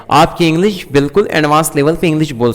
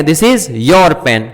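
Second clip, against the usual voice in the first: "your" drawn out very slowly; slow correct form; 3 semitones lower, much slower than usual. Shown as a demonstration. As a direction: spell it out slowly for learners. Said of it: "क्या कहेंगे".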